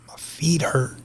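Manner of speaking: unvoiced, weary whisper of sore feet; whispered complaint. Telling stepdad his feet hurt, in a whisper. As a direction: breathe it out, too tired to voice it.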